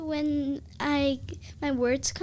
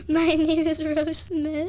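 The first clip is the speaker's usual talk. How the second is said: giggling through a mock British accent, a bit louder; child tries a British accent while laughing; British accent with a giggle; 4 semitones higher, 7 dB louder than usual. Shown as a demonstration. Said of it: "in a British accent".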